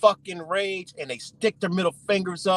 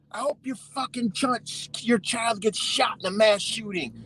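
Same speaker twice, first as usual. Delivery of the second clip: high-pitched imitation of an enraged heckler; mock angry yell; 6 semitones higher than usual. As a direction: hurl it in a raised, hateful mock voice. Retelling protesters' hostile yelled wishes.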